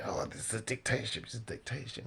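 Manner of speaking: lightly scandalized mimicry, a little quick; mock shock. Commentator imitates shocked critics of China, mock outrage. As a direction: imitate people protesting in mild shock. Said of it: "shocked, shocked, and say".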